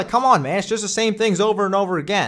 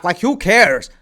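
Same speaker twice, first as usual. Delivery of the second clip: exasperated; 6 semitones higher, 5 dB louder than usual. Real, not acted. Ranting about storyline.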